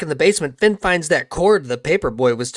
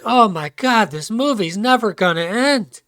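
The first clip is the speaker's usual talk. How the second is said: higher, hammed-up moan; mock exasperated whine; 5 semitones higher than usual. Finn crawling back out of the fridge, mock exasperated whine. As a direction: moan it as an endless ordeal.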